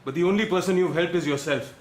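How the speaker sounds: bitter accusation. Acted. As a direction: throw the accusation back at him.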